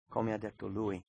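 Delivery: ordinary talk, nothing marked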